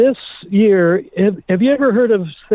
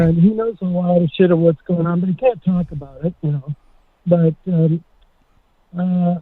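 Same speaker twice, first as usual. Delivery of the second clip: muffled. Real, not acted. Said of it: "You're getting all weird and muffly".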